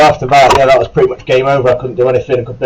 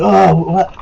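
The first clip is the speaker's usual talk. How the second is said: imitated corporal; 8 semitones higher than usual. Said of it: "He went".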